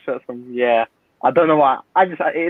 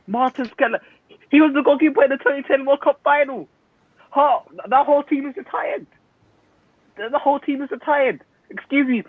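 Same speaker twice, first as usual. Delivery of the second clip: a lightly put-on, higher Dutch accent; poor Dutch accent; 7 semitones higher than usual. Pundit mocking the Dutch squad as a Dutch fan, in a poor, higher Dutch accent. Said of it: "That poor accent".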